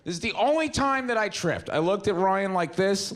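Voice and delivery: ordinary delivery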